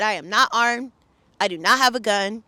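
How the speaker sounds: loud, steady, every word clear; loud and calm. Retold or imitated. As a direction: call it out loud but keep it calm. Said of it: "I'm s-, speaking very loud and calm".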